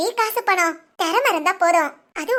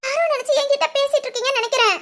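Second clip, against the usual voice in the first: higher, laughing nervously through it; 6 semitones higher than usual. Acted. Girl's mother laughs nervously at the angry stranger. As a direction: laugh it off uneasily.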